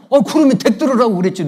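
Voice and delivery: quick, loud, high comeback; mock indignant retort. Preacher answers a touchy member, mock indignant. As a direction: fire back in playful indignation.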